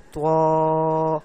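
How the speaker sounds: تواں said slowly with the mouth open, clear. Shown as a demonstration. Teacher showing students the clear open-mouthed تواں. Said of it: "آواز میں فرق ہو گیا".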